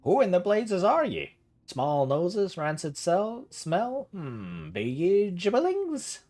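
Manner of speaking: put-on an eccentric old uncle squinting at strangers; gruff old uncle. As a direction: bark it like a grumpy hermit uncle. Voices Uncle Gerhard in game dialogue.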